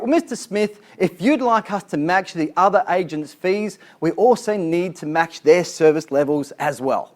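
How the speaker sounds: polished, proper agent reading a script, barely changed from own voice; a lightly voiced courteous agent, measured and correct; prim professional agent. Shown as a demonstration. Trainer reads the polite script to Mister Smith, lightly prim. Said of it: "the prim, proper, and professional version".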